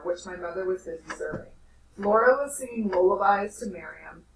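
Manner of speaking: steady storyteller reading aloud; story narration. A narrator's reading. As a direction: read the novel aloud to the class. Teacher reads novel to class.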